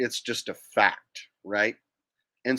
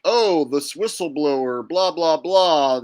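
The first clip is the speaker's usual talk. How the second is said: louder dismissive blah-blah parody; mocking the news; 3 semitones higher, 6 dB louder, slower than usual. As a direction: brush off the news story with scorn. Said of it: "whenever they're like".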